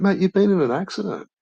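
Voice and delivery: high, disbelieving Aussie cop; incredulous cop. Retold or imitated. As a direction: tell him he has crashed, amazed. Cop addressing the drunk driver.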